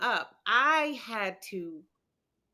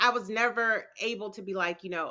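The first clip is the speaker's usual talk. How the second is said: ordinary talk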